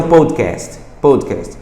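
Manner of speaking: "podcast" as a careful learner's English, rounded o; learner's English pronunciation. Retold or imitated. Imitating a student trying the word in English, learner's pronunciation. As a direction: say "podcast" neatly, as a student reading it off. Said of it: "Ah, vou pronunciar em inglês".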